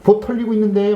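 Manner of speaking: high-pitched indignant complaint; hammed-up distressed protest; mock gamer outburst. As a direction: imitate a gamer wailing at teammates mid-match. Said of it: "막 이러면서".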